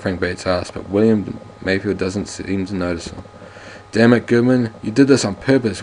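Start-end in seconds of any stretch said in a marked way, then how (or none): 3.9-5.8 cries out. Acted. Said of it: "William Mayfield cries out".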